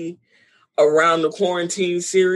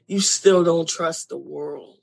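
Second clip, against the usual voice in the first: choked up. Real, not acted. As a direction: say it again, choking back tears. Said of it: "I'm choked up".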